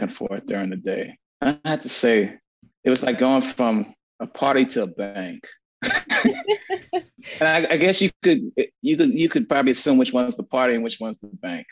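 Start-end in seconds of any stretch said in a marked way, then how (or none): 5.8-7.0 high, bursting laugh; hearty laugh. Real, not acted. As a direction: let out a big high laugh. Laughs at his own joke.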